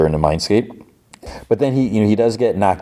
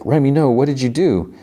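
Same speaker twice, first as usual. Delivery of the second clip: higher-pitched, dismayed plea; Rogue; 7 semitones higher than usual. Retold or imitated. Rogue questioning what Gambit just did, acted dismay. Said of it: "Rogue's like".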